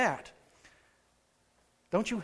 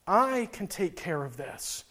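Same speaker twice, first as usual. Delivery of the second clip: slow, softer reassurance; calm him down gently and slowly; voice of God; 4 dB quieter, slower than usual. Retold or imitated. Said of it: "the Spirit of God speaking to me and saying".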